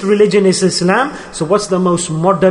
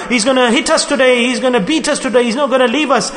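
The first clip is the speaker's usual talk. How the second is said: mild retold shriek; 5 semitones higher than usual. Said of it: "The other daughter shrieked out".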